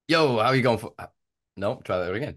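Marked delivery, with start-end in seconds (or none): 0.1-0.9 loud, upbeat host greeting; podcast intro greeting. Real, not acted. Host starting take two of the intro, punchy greeting. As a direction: launch into a show opener.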